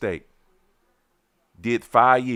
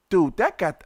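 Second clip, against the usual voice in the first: higher, heated "dude"; angry retort; 8 semitones higher, 3 dB louder than usual. Retold or imitated. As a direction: start to snap back at him. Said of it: "I'm like".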